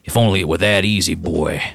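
lightly voiced towering strongman, quick; a touch of a smug giant; Danger Bob. GM as Bob teasing the player, lightly smug. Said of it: "He looks down at you and goes".

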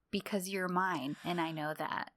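a tender secret for her ears only; hushed, intimate. Retold or imitated. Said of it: "he leans in so the nurse can't hear".

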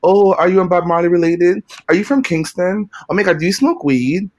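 high, bright mock voice of an eager stranger; mocking questioner. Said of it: "The moment I go".

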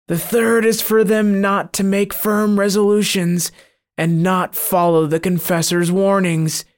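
a gloating demon boasting of its snares; sinister monster. Acted. Monster confesses, eyes bleeding.

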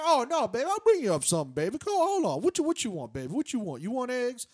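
high, loud, doting voice; imitating the room service lady. Retelling the hotel lady offering breakfast, high and doting. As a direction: coo at him like a fussy auntie. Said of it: "This woman definitely sounds like she's Korean".

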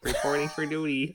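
Solid Snake voice. Acted. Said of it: "This is Snake. Solid Snake".

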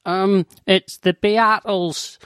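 lightly voiced hesitant anorak; a hint of a timid nerd; slow, hesitant answer. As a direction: drag it out unsure. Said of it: "And he goes".

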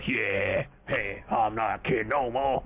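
a hint of a teen's broken voice. Shown as a demonstration. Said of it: "my voice suddenly changed from ... to".

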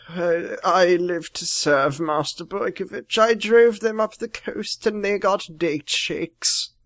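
slow, soft servile butler; lightly voiced creepy butler. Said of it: "the voice that you're doing for the driver".

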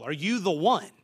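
"the" leaned on as "thee"; weight on "the", marking the one and only; stress on THE. Shown as a demonstration. Preacher explaining the definite article, stressed "the". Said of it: "That definite article".

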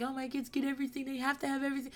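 airy imitation of an indulgent parent; mocking spoiled-kid parent. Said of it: "those parents that's just like".

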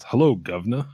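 hammed-up Cockney greeting in a British accent; a mock British accent, barely there; bad English accent. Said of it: "my English accent again".

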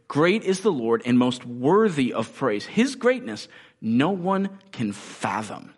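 measured, emphatic psalm reading; scripture reading. Real, not acted. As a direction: proclaim the verses with deliberate stresses. Reads psalm verses aloud.

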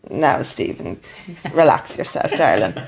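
calm him down like a pet, teasing; mock soothing. Teasing partner about idols.

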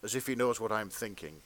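earnest, measured erotica read; fan fiction narration.

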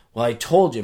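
punchy parental telling-off; scolding dad. Acted. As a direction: act out a parent's I-told-you-so. Dad scolds over bad grade.

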